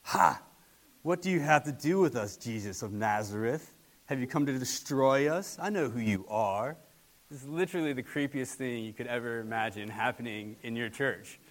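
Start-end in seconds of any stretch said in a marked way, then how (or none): 0.0-6.8 acted demon cry, louder, in a put-on menacing voice; hammed-up possessed man taunting Jesus; creepy demon voice. Preacher acts the demon shouting at Jesus, mock menacing. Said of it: "the guy goes".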